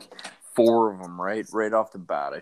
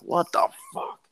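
high shocked squeal. Retold or imitated. Retold shock on falling.

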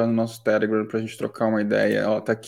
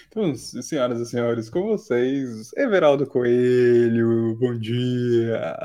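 grand entrance announcement; slower than usual. Acted. Host introduces guest on show.

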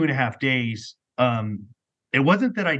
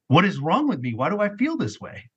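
higher-pitched, troubled questioning; retold plea, pitched up; pleading with God; 6 semitones higher than usual. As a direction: act out a lost, searching plea. Acts out lost plea to God.

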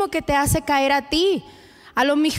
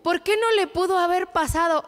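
mock dramatic little girl whining; a daughter in hospital whining dramatically to her mom; dramatic child; 2 semitones higher than usual. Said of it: "me decía así bien dramática".

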